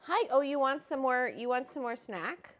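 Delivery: high coaxing pet voice; sing-song coo at the little dog. Real, not acted. Owner cooing at her little dog, high baby talk.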